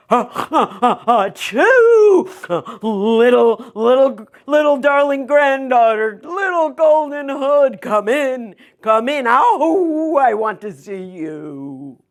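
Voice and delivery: high, sneezy fake granny voice; wolf putting on a sick old granny voice; wolf as grandma.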